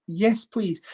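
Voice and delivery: breathless whispered yes please. Acted. Collector echoing the offer to himself, a secret whisper. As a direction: hush it like a secret wish.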